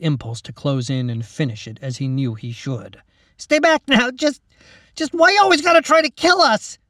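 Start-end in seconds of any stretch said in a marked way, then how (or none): 3.4-6.8 high, loud panicked yell; scared shout. Acted. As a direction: shout to keep it away. Mac fending off goblin.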